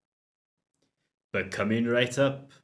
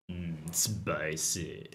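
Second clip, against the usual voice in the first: slow, unvoiced whisper of spicy; slow breathy whisper, savouring; 7 semitones lower, 9 dB quieter, much slower than usual. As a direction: breathe the word spicy slowly, no voice. Whispered echo of drink name.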